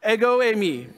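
Ego eimi said as eh-go AY-mee, firm and clear; Greek phrase. Shown as a demonstration. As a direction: give Ego eimi its Greek sound, stress on E of Ego. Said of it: "he says it like this".

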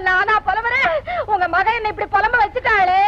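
crying as she throws his word back; tearful protest. Acted. Mother answers her husband's scolding, tearfully. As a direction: sob through the complaint. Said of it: "ஏண்டி புலம்புற?".

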